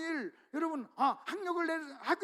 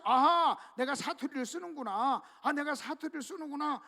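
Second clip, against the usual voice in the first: dawning realization; 3 dB louder than usual. Retold or imitated. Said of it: "하는 것을 알게 된다는 거예요".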